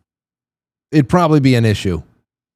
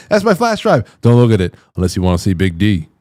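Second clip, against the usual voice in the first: a light mock of the suspect's sing-song lilt, dropping low on the second line; imitating his inflection; 4 semitones lower than usual. Host mimics the arrested man's flash drive line, lightly mocking. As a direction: copy the suspect's lilting delivery, half-mocking. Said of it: "I love the inflection in his voice".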